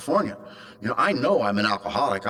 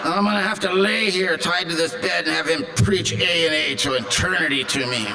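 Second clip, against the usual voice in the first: exasperated panic; 5 semitones higher than usual. Retold or imitated. Waking to see dreaded Charlie.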